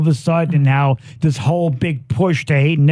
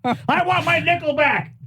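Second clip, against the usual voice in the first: high mock whine; 12 semitones higher, 4 dB quieter than usual. Mocking chant of the joke.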